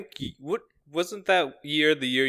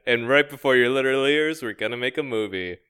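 show catchphrase. Acted. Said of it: "I have to say the line".

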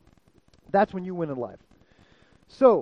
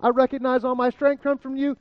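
mock fervent praise; 3 semitones higher than usual. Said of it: "I'm like".

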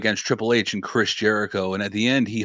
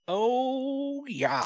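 put-on Canadian country accent; 6 dB quieter than usual. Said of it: "the country accent's like".

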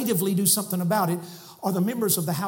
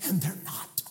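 quiet echo; 2 semitones lower, 6 dB quieter than usual. Real, not acted. Quiet echo after proclamation.

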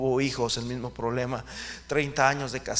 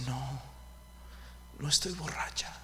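soft hurt denial; 11 dB quieter than usual. Acted. Preacher voices tearful Ana.

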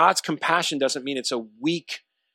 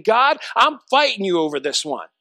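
raised-pitch, mildly angry defiance; 4 semitones higher than usual. Acted. Preacher voices Jonah picking a fight with God, angry. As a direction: act out a challenge to God, voice lifted. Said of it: "he's so angry that he's saying".

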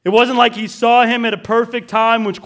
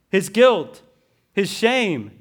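usual speaking voice

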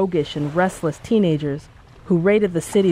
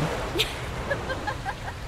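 laughing; 11 dB quieter than usual. A narrator's reading. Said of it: "broke the surface laughing".

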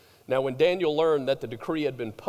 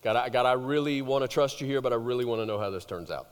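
quick anxious prayer; 4 semitones lower, faster than usual. Retold or imitated. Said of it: "most of us would do the".

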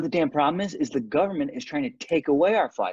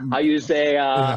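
louder mock foreign accent; second-language English; 5 dB louder, slower than usual. Hornet hunting for an English word, foreign accent. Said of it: "English is clearly his second language".

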